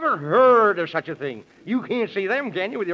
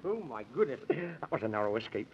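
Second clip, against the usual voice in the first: much lower and softer sigh of relief; breathless relief; 9 semitones lower, 10 dB quieter than usual. Acted. Man in the Moon after the narrow escape, hushed relief. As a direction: let the fear drain out.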